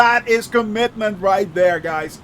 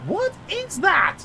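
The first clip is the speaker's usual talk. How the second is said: surprised question; 10 semitones higher, slower than usual. Real, not acted. Spots something odd.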